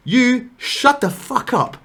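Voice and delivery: loud, high, slow angry yell; furious shout. Retold or imitated. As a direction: roar it at the ex. Yelling at ex in car.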